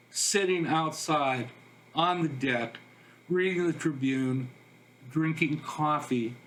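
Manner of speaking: measured reading, pausing after each phrase; understated poem recital; poetry reading. Acted. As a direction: read your own poem line by line. Reads own poem aloud.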